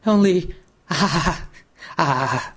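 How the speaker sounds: fail to get the words out; panting. Acted. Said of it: "panted the other".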